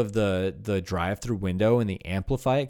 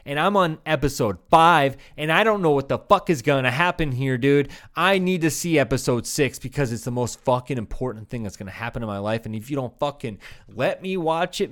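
louder, higher mock-furious customer; irate customer rant; 3 semitones higher, 5 dB louder than usual. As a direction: rant at the cable company like a fed-up caller. Imagined irate customer calling cable company.

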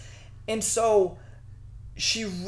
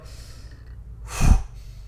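long sigh. Retold or imitated. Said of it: "and I go".

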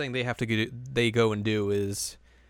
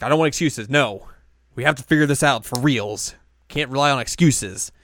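stern; 3 semitones higher, 5 dB louder than usual. Retold or imitated. Chika's quote, insisting firmly.

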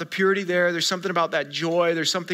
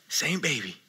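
softer echo; 5 semitones lower, 10 dB quieter than usual. Shown as a demonstration.

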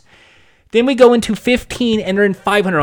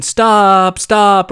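urgent raised shout of stop; 3 semitones higher, 4 dB louder than usual. Retold or imitated. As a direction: yell for them to stop. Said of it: "a lot of shouting".

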